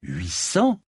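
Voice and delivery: "Huit cents?" rising sharply on "cents"; taken-aback echo question. Acted. Knight echoes an unexpected price, "Huit cents?" rising in surprise.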